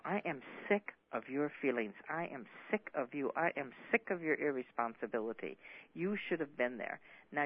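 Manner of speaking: a touch of a scolding rant, mostly normal voice; mildly retold tirade at him; lighting into him. Wife laying into husband over his irresponsibility, mild scolding. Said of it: "she lights into him".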